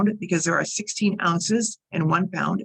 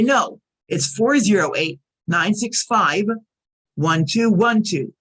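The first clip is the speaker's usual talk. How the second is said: five and one emphasized, slow and firm; stress on five and one; slower than usual. Shown as a demonstration. Correcting a caller who misheard, stressing five and one. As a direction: lean on five and one so she writes them right. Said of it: "I will emphasize, like, the red letters, the five and the one".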